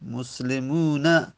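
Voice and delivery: slow مسلمون, said muslimūna; final fatha. Shown as a demonstration. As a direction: end مسلمون on a clear short a after the nun. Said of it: "نون در آخر فتحه داره".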